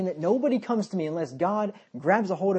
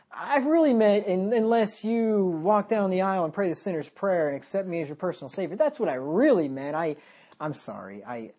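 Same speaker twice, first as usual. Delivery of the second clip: mock apologetic Jesus; 2 semitones higher than usual. Preacher mocks a watered-down Jesus apologising to disciples, hammed-up. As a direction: fake a grovelling apology to the crowd. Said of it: "Is that what he said?".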